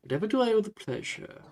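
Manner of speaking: lightly voiced, courteous gentleman with swooping pitch; lightly played old-world host, drawing out the greetings; courteous ghostly gentleman. Ghost greeting two students at his door, courteous.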